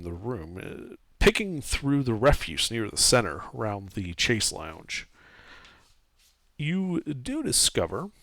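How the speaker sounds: measured scene-setting with dramatic pauses; storyteller drawing out each detail; game master narration. Acted. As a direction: narrate the discovery piece by piece. Game master describes the room.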